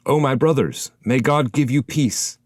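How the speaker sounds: hint of a wandering soul hailing the travellers; lightly voiced soul calling out to strangers on the path; lightly voiced shade. A narrator's reading.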